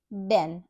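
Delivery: "den" with a quick, short e; short crisp vowel. Shown as a demonstration. Phonics teacher shows the short E sound, quick and crisp. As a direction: say "den" with a brief, crisp e as in bed. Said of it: "a quick sound".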